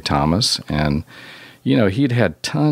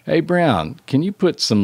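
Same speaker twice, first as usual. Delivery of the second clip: higher-pitched, lightly imitated Jersey accent; attempted Jersey accent; 7 semitones higher than usual. Musician calling to the novice engineer, attempted Jersey accent. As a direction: hail someone in a half-attempted Jersey accent. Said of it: "he kinda had this, you know, accent".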